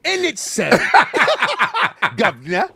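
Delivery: put-on Cockney phrases; lightly put-on Cockney accent; mock Cockney. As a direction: toss off fake London slang.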